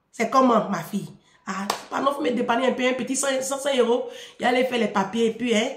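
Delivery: gentle asking. Shown as a demonstration. Daughter modelling how father should ask for money, gently. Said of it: "faut faire doucement, doucement".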